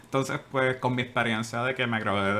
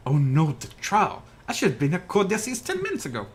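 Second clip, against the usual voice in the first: higher, louder alarmed outburst; sudden panic; 6 semitones higher, 4 dB louder than usual. Acted. Lawyer realises he missed the trial, alarmed and louder. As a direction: panic as you realise you're late.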